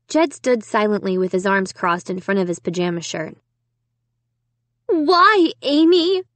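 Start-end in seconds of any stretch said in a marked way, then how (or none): 4.9-6.2 high, louder insistent question; demanding. A narrator's reading. Sister pressing Amy for a reason, demanding. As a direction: demand an answer, pitched high. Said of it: "Sarah demanded again".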